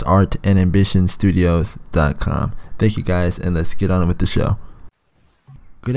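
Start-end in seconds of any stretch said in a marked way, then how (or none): 0.0-2.5 slow, careful repeat of the address. Shown as a demonstration. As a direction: spell the address out slowly. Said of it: "Once again".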